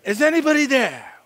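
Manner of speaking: pleading call into the phone; desperate call. Retold or imitated. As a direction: call out hoping a human picks up. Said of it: "I won't say that".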